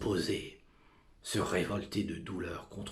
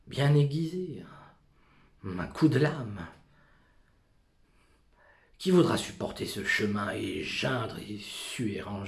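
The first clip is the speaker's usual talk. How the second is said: louder, forceful declaiming; loud outburst; 6 dB louder than usual. Acted. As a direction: burst out with full force. Soliloquy bursting out.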